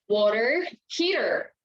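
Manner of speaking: water heater with a flapped t and an r-coloured ending, wah-der heater; American English; American accent. Shown as a demonstration. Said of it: "American English rather".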